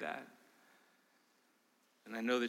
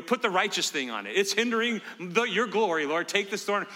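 whining plea; 7 semitones higher, 6 dB louder than usual. Retold or imitated. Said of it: "You know".

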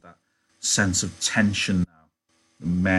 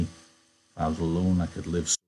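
wooden; 2 semitones lower, 4 dB quieter than usual. Acted. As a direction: say it woodenly, no feeling. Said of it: "He said woodenly".

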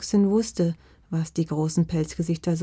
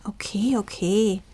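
lightly raised cut-in; interrupting; 3 semitones higher than usual. A narrator's reading. Fox stopping the dog's list of smells, interrupting. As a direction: cut in to stop the list, without shouting. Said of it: "unterbrach die kleine Füchsin".

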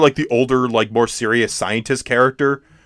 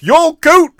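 high, loud acted shout; mock yell; 7 dB louder than usual. Retelling a film character's outburst, mock yell. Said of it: "Billy Campbell's like".

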